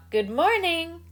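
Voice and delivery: put-on high, sweet little girl calling out; girl's call. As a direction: call out brightly as Little Red Cap. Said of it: "She called out".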